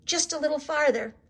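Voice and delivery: John promising the flock the meadow is near. A narrator's reading. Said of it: "he kept promising".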